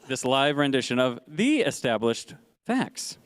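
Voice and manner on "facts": FACTS set apart, high then falling; emphasis on FACTS. Real, not acted. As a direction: hold back, then drop FACTS in on a high falling note. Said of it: "interesting emphasis on facts".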